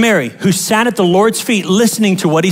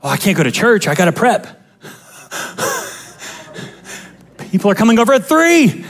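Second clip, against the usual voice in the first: mock fretting. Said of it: "busy doing preparations".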